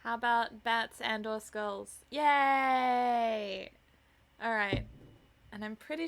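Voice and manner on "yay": loud happy cheer; excited cheer. Real, not acted. Cheering for chat suggestion.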